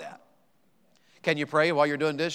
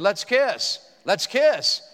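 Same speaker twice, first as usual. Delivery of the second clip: higher, lightly squawked parrot chant; 5 semitones higher, 4 dB louder, much slower than usual. Acted. Preacher voicing the widow's parrot at the pastor's house. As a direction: blurt it like a cheeky bird. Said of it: "Her bird said".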